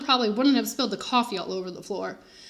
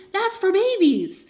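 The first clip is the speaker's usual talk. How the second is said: scornful, slow and louder; indignant; 8 semitones higher, 4 dB louder, slower than usual. A narrator's reading. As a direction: scoff at the idea. Narrator's indignant thought.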